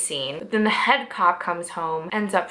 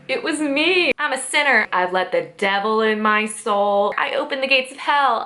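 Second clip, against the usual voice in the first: confessing sinner; 2 semitones higher than usual. Retold or imitated. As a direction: ham up a guilty cop baring his soul. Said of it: "And he's like".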